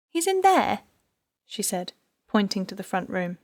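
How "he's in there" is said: anxious wife. A narrator's reading. Wife pointing police to husband.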